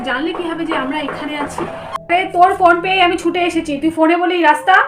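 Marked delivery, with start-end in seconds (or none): 2.1-4.8 louder, urgent scolding worry; mother chiding her daughters; worried mother. Acted. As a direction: scold them out of relief. Worried mother ran to find them.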